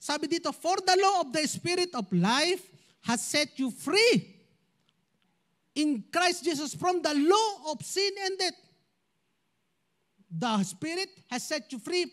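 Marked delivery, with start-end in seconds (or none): 0.5-8.6 slow, deliberate Bible reading; scripture reading. Acted. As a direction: read the verse out measured and clear.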